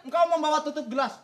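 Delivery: hammy soap opera declaiming; soap opera drama. Acted. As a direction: overact like a soap opera hero. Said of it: "Kayak sinetron ya".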